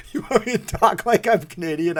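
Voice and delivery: half-hearted try at talking Canadian; badly faked Canadian accent. Streamer offering viewers a Canadian voice, badly faked Canadian accent. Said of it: "I can't really do it".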